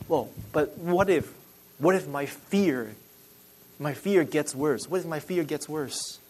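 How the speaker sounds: softly voiced anxious question; worried doubt. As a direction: quietly act a listener's hesitant worry.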